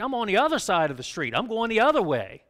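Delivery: a sudden oh-no as it dawns on you; alarmed realization. Acted. Churchgoer realizing they took the wrong road: loud dismay. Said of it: "listen to this and go".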